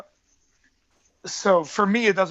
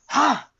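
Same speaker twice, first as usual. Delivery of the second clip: short, higher-pitched "ha" battle cry; mock war cry, pitched up; imitated war cry; 7 semitones higher than usual. Fighter retelling a sparring partner's yell, imitated war cry. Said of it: "like, a war cry".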